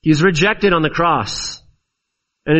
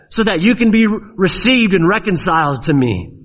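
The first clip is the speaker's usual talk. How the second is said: God; 4 semitones higher than usual. Acted. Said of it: "God says".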